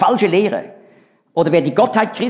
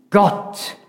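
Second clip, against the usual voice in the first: "Gott" breathed out without voice; hushed emphatic Gott; 2 semitones higher than usual. Shown as a demonstration. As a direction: let "Gott" land as a hushed whisper. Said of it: "doppelt betont".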